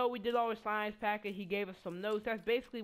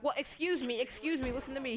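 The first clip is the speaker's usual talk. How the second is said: indignant; 4 semitones higher than usual. Retold or imitated. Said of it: "she started flipping out".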